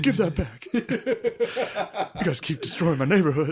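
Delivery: high, drawn-out cartoonish protest through laughter; mock indignant complaint. Acting out a street shakedown for a friend, mock indignant. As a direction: put on a high, whiny complaining voice. Acts out a Red Dogs shakedown.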